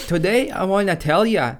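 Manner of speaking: a light put-on Indian accent in English. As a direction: imitate an Indian scammer speaking English. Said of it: "у них другой акцент такие".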